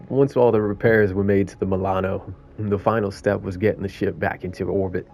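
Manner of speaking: lightly put-on New York raccoon voice; half-hearted New York accent with a hint of sarcasm; sarcastic New York accent. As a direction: read it as a New York city-dweller raccoon. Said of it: "a little bit of sarcasm on a New York".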